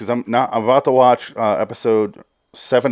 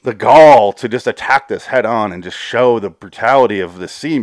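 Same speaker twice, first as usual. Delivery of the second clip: incredulous; 4 dB louder than usual. Retold or imitated. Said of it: "I'm like".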